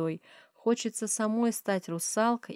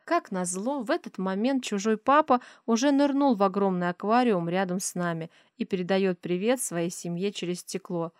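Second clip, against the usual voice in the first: usual speaking voice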